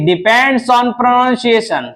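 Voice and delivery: depends on pronunciation said slowly, with weight on on; slow emphasis. Shown as a demonstration. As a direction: lay the key rule down slowly. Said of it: "advance definition ये कहती है". (नियम पर धीमा ज़ोर)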